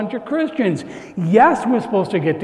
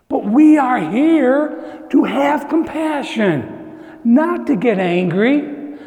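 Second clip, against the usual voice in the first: slow, louder preaching; slow impassioned plea; earnest plea; 4 semitones higher, 3 dB louder, slower than usual. Real, not acted. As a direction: press each word, pleading. Preacher pleads slowly with force.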